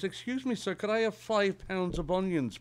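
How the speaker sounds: put-on high-pitched polite old lady; little old lady. Old lady asking a shopkeeper for onions, high old-lady voice. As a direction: pitch it up like a sweet-talking customer. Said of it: "a little old lady".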